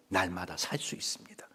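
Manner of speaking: low hushed whisper. Real, not acted. A preacher whispering the key line to the congregation. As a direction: let it land in a hush.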